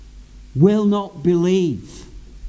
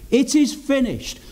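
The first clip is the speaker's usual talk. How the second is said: higher-pitched proclamation, not a shout; a preacher's restrained cry; imitated loud cry; 4 semitones higher than usual. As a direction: raise the pitch as if crying it out. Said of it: "with a loud voice".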